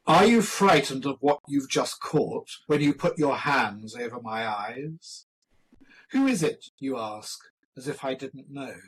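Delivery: soft, measured poem reading; poetry recitation. Acted. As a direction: recite softly, with pauses between the lines.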